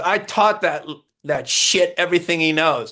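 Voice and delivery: put-on abrasive New Jersey accent. Retelling what an abrasive lipidologist said: imitating an abrasive Jersey guy. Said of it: "he got totally abrasive".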